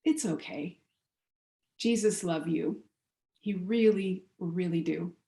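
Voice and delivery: lightly imitated Jamaican accent, unhurried. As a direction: reassure with a hint of a Jamaican accent. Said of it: "in this thick Jamaican accent".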